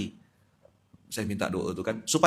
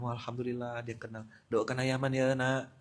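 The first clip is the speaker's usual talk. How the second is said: tender reply; 8 dB quieter than usual. Retold or imitated. Retells his reply to a child.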